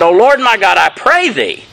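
lifted voice, restrained plea; Elijah crying out. Retold or imitated. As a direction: read it as an earnest cry to God. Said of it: "and cried unto the Lord".

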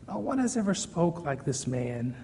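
soft, reverent echo of the line; hushed repeat. Shown as a demonstration. Preacher echoing the guards' awed words, softly. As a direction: let it sink in, quietly. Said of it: "hushed repeat of guards' words".

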